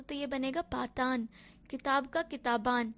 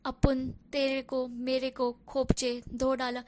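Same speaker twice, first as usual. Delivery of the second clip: Bambaiya street slang, said slowly and louder; Bambaiya Hindi words; 5 dB louder than usual. Shown as a demonstration. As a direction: give each Bombay slang word a Bambaiya punch. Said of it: "कुछ words है जैसे कि बिंदास".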